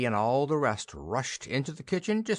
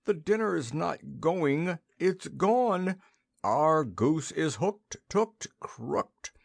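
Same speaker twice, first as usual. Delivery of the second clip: flustered general; 7 semitones higher, much slower than usual. A narrator's reading. General breaks bad news.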